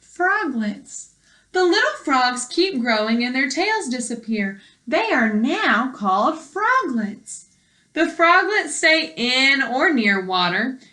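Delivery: clear, even read-aloud voice for a class; reading to children. Acted. Teacher reading a frog book to her class, clear read-aloud.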